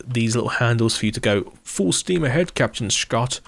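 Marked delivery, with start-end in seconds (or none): 1.6-3.4 put-on Scottish captain's voice; Scottish accent. Host jokingly orders the ship's captain full steam ahead, Scottish accent. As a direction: slip playfully into a Scottish accent. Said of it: "said it in a Scottish accent".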